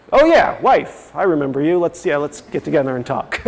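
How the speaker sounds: as if suddenly remembering your wife, mock-casual; absent-minded husband. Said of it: "men fall into those states of".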